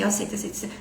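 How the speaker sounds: quick, tossed-off fake agreement; agreeing just to get it over with; fake acceptance. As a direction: repeat it hurriedly as insincere agreement. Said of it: "é um aceito de mentira".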